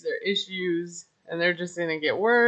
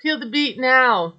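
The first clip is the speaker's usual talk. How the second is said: mild mock anger; 4 semitones higher than usual. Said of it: "And then she gets mad".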